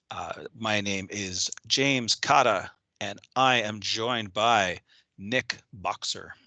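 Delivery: tough guy voice. Pretend. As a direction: play it like a hard-nosed tough guy. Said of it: "That was my tough guy, Nick Boxer voice".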